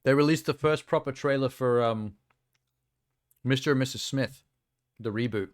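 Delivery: sucking a lolly while talking; mouth full. Real, not acted. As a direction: talk around a sweet in the mouth. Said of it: "lolly in my mouth still".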